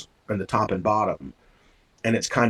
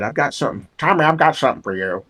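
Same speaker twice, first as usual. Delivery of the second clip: put-on Southern accent; 4 semitones higher, faster than usual. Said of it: "She had this great accent".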